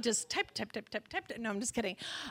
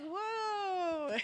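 laughing woo; 5 semitones higher, 6 dB quieter than usual. Retold or imitated. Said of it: "a little like".

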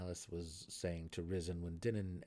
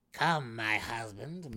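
slow, louder summons; commanding; 4 semitones higher, 8 dB louder, slower than usual. A narrator's reading. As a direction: beckon him commandingly. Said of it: "Malice said to Risen".

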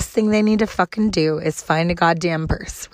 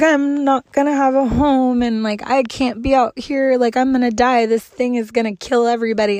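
higher-pitched mock meltdown; imitating someone freaking out; retold freak-out; 4 semitones higher than usual. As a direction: act out her panicked spiral, pitched up. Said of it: "she's freaking the fuck out".

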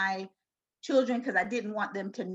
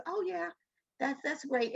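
higher, lightly voiced young daughter; imitated child; 7 semitones higher than usual. Daughter agreeing with mom's comfort, imitated child. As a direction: echo a child coming round, pitched up. Daughter's relieved reply, retold.

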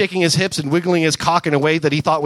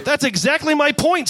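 screaming; 9 semitones higher than usual. A narrator's reading. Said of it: "screamed Gamora".

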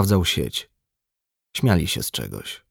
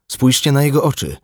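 higher-pitched startled exclamation; startled cry; 8 semitones higher, 4 dB louder than usual. A narrator's reading. Fisherman notices the castaway's eyes, crying out. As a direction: call the others to look, startled. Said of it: "krzyknął rybak".

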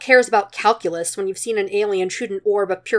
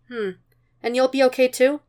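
higher, incredulous woman's question; a hint of Bulma asking in disbelief; Bulma's voice; 6 semitones higher than usual. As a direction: lift it up into a surprised woman's voice. Bulma's voice in dialogue.

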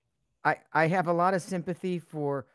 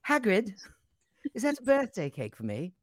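put-on high, bright English accent as Harry; posh English schoolboy accent; 8 semitones higher than usual. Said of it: "I could even do an English accent".

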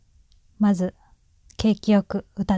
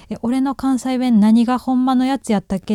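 mildly puzzled Kansai actor, pitched higher; confused actor; 4 semitones higher, 3 dB louder than usual. Acted. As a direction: lightly act out losing track of your own dialect. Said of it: "ってわからなくなって".

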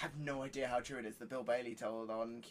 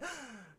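mock gasp; 9 semitones higher, 8 dB quieter than usual. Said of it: "Shock horror".

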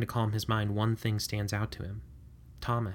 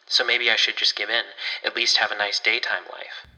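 resigned suggestion; 8 dB louder than usual. Acted. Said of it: "Warren suggests".

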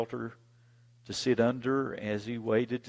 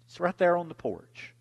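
mama insisting; 8 semitones higher, 4 dB louder than usual. Retold or imitated.

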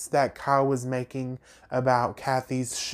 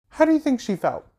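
indignant outburst; 10 semitones higher, 4 dB louder, faster than usual. Real, not acted. Ranting at Rinna's hypocrisy.

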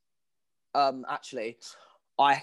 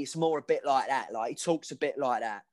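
Dougie's voice. Shown as a demonstration. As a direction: demonstrate a character voice, only lightly put on. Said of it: "I do a different voice for every character".

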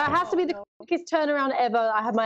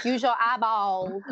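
drawn-out American South accent; Southern American accent; 2 semitones lower than usual. Shown as a demonstration. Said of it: "my favourite American, like, Southern word".

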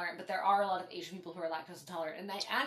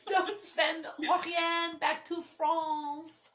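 laugh-crying; 10 semitones higher, 6 dB louder than usual. Real, not acted. Laughing-crying drunk protest.

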